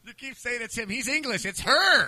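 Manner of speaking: high, exaggerated English voice; mock British accent. Co-host joking about the accent, mock British protest. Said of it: "with the, with the accent".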